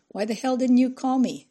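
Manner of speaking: sharp angry demand down the phone; angry outburst. Acted. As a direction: let the anger burst out at him. Angry phone call to husband.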